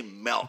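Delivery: "milk" said MELK, with an E. Shown as a demonstration. Host spelling out the disliked form, "milk" said MELK. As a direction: say "milk" to rhyme with elk. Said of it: "like M E L K".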